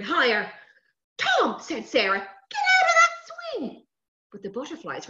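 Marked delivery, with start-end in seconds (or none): 1.2-1.6 put-on high, loud child's call. Sister calling to brother on the swing, high shout. 2.2-3.9 put-on high, loud, drawn-out child's order; urgent call. Sister ordering brother off the swing, high urgent shout.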